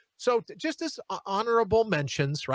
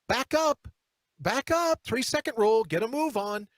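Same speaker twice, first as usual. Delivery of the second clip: mock warning; 5 semitones higher than usual. Imagined retort to poking shopper.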